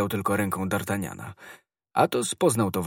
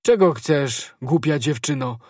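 raised, louder rebuke; indignant challenge; 4 semitones higher, 6 dB louder than usual. A narrator's reading. Woken servant to supposed girl bursting in, indignant challenge. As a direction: challenge the intruder crossly.

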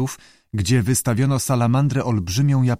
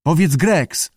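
lightly voiced keeper, a bit higher; tentative prompting; 6 semitones higher, 3 dB louder, slower than usual. A narrator's reading. Keeper tries teaching the lizard his name, prompting. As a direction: prompt it as a test. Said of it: "spróbował".

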